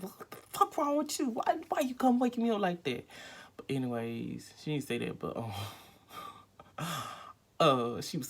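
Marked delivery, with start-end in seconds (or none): 0.0-3.1 mock angry. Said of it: "she's like".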